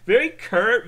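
high, loud, laughed-out words; laughing. Real, not acted. Streamer cracks up at own impression of a friend, laughing. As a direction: burst out laughing while talking.

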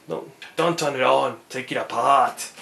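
put-on low, half-hearted Australian accent; bad Australian accent. Hobbyist quoting a teardown motto, in a poor Australian accent. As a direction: attempt an Australian catchphrase, not very well. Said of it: "my Australian accent, not the best".

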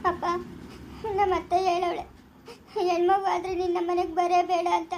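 tearful plea to her father; weepy, slowing into a helpless question; crying. Acted. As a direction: sob out the worry. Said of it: "ಹ್ಞೂ, ಅಳ್ತಾವಳೆ".

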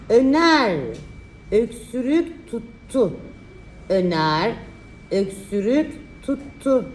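slow, drawn-out dictation; dictating. Shown as a demonstration. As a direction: spell out the sentence slowly. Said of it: "dikte çalışması".

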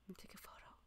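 tiny, barely audible whisper. Real, not acted. Streamer photographing the quiet fish room, whispering. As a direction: whisper it under your breath. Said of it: "Why am I whispering?".

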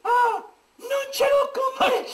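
falsetto woman voice. Acted. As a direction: squeak it as a man playing a lady. S1 Desdemona falsetto. (voce in falsetto femminile)

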